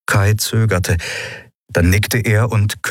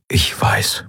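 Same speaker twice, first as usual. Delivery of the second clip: hushed, voiceless admission; resigned whisper. A narrator's reading. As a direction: whisper it, accepting the truth. Telios quietly accepts his likely death.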